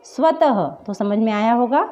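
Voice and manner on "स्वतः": स्वतः ending in a breathed ह; visarga demo. Shown as a demonstration. Teacher showing the visarga in स्वतः. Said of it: "इसका उच्चारण हुआ".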